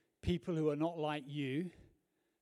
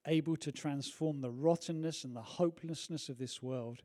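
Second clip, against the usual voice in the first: closing prayer; 3 dB louder than usual. Acted. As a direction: pray it aloud, steady and fervent.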